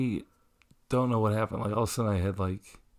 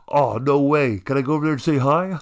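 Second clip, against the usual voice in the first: higher, louder and fast, thrilled; rushed, pitched-up delight; excited fan; 5 semitones higher, 5 dB louder than usual. Retold or imitated. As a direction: blurt it out like an eager fan. Imitating the excited Canadian fan.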